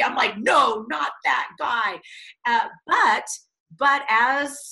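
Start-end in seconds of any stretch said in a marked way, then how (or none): 0.4-2.0 mock shout. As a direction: shout it down in horror. Refusing to meet John, shouting.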